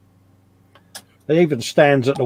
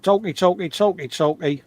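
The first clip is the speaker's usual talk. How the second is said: silly filler talk; 5 semitones higher than usual. Pretend. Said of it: "Keep talking".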